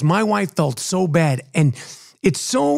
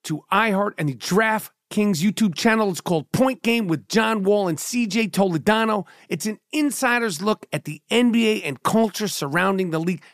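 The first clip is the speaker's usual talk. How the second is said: ad read. Acted. Reads a podcast ad.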